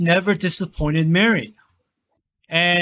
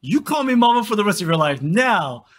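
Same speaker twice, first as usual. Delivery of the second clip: indignant mother; 3 semitones higher than usual. Retold or imitated. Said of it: "You're like".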